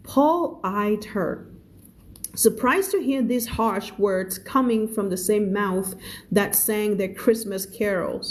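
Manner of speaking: reading the story aloud slowly, word by word; slow, careful read-aloud. A narrator's reading. Teacher reading the story to her student, slow read-aloud.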